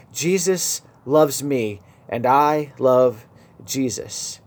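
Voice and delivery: slow, each word pushed out with effort; a gentle imitation of labored, slurred speech; strained slurred effort. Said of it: "in his strained, slurred manner, each word coming with enormous effort".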